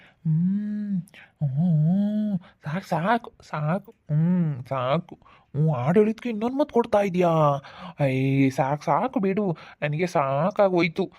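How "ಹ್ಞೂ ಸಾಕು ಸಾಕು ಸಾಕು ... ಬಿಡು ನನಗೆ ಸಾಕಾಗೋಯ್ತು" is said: sleep mumbling. Acted. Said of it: "ಏನ ಅಂಬ್ಲಿಸ್ಕೊಂತ ಇದೀಯಾ?".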